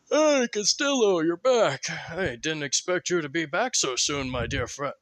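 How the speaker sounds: Talavin greeting his returning friend; friendly greeting. Acted.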